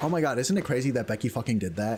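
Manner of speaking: ordinary talk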